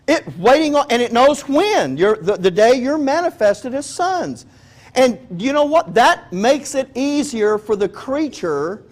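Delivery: full-force preaching. Real, not acted. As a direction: preach it out to the congregation.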